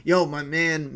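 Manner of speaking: pumped up announcement; hyped. Real, not acted. Hyped about Predator.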